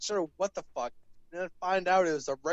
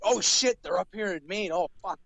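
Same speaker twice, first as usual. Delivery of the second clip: retold freak-out; 2 semitones higher than usual. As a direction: act out freaking out in the retelling. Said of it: "I was freaking out".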